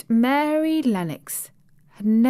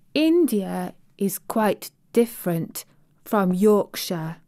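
said slowly. Acted. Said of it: "Mary said slowly".

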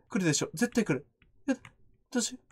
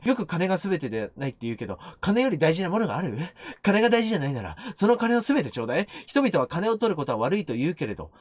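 low, understated character reading; a hint of a greedy schemer; lightly voiced money-obsessed woman; 5 semitones lower than usual. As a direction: read her creed in a lower voice. Reads a money-obsessed character's text.

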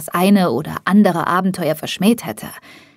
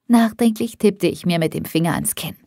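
ordinary delivery, nothing marked

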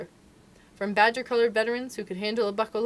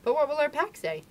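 Father Wolf; 7 semitones higher than usual. Acted. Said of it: "said Father Wolf".

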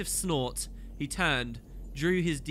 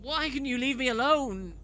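higher, louder annoyed moan; 10 semitones higher, 4 dB louder than usual. A narrator's reading. Poisey moans at Dlix to leave her alone. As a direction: groan it, half-conscious and fed up. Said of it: "Poisey moaned".

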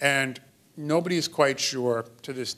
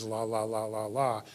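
put-on baby babbling; 3 semitones lower, 5 dB quieter than usual. Shown as a demonstration. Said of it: "sounds like what babies do".

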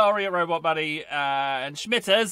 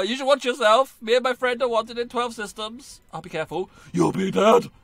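cantina thug; 4 semitones higher, 5 dB louder than usual. Acted. Star Wars cantina quote.

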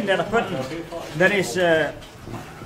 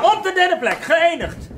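drumroll announcement; 9 semitones higher, 5 dB louder, slower than usual. Acted. Announcing third place with drumroll.

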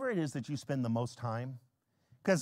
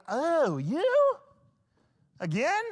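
mock reluctant; 10 semitones higher, 5 dB louder, much slower than usual. Reluctant host greets God again.

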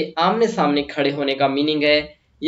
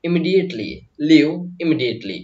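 very slow, clear teacher model; slow classroom repetition; slow dictation; much slower than usual. Shown as a demonstration. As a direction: spell it out slowly for students to copy. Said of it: "तो हम कहेंगे".

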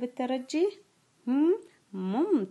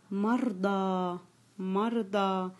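slow dictation; much slower than usual. Shown as a demonstration. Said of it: "سوف أنطق الكلمة".

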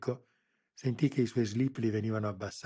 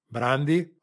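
loud "Brandi" with a rising call; calling an order; 5 semitones higher, 10 dB louder than usual. A narrator's reading. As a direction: summon "Brandi" loudly, rising. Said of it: "ordinò al giovane colosso".

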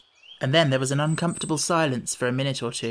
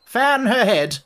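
higher, louder anxious cut-in; anxious interruption; 7 semitones higher, 6 dB louder than usual. A narrator's reading. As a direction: burst in worried, louder. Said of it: "the Red Queen anxiously interrupted".

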